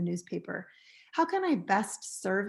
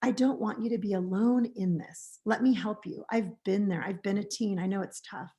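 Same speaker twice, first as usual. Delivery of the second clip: gentle; 2 semitones lower than usual. Shown as a demonstration. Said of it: "you could say".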